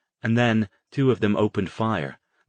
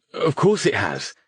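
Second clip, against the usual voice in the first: high, loud irritated snap; snapped; 7 semitones higher, 5 dB louder than usual. Acted. Stone answering Harrison's doubt, loud irritated snap. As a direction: bite it off sharply. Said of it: "he snapped".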